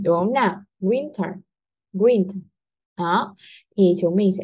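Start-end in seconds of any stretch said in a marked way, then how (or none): 0.8-2.4 "Winter" with a strong first syllable, light "ter"; stress on WIN. Shown as a demonstration. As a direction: lean on "Win" in "Winter", drop the ending. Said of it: "À, chính là win". (nhấn âm "Win" trong "Winter")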